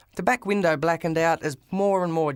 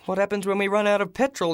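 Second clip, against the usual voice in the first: yelled back; 4 semitones higher, faster than usual. Acted. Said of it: "he yelled back".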